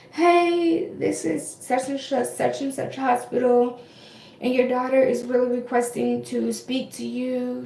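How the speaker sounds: a hint of a nurse's phone manner; recovery nurse. Nurse calls patient's mom after surgery, lightly imitated nurse voice. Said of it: "the recovery nurse called my mom".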